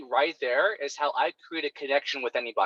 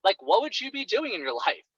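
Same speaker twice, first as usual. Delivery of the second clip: upbeat coaching question; 4 semitones higher than usual. Shown as a demonstration. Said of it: "And you say".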